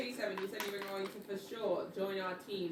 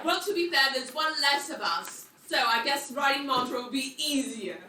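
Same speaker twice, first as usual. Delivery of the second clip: loud heated rant; 3 semitones higher, 5 dB louder than usual. Real, not acted. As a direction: get worked up and loud. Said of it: "how heated she's getting".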